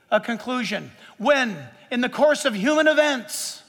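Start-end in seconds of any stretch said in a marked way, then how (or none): 1.9-3.6 course leaned on, a bit higher and louder; stress on course. Real, not acted. Preacher to his crowd, stress on course. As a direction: press down hard on the word course. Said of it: "and I stress the word course".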